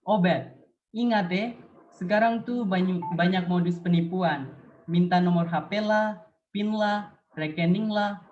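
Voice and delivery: a Papuan friend warning Obed about scams; Papuan dialect. Acted. Presenter voicing her own Papuan idiolect to warn about scams. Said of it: "Now it's my turn".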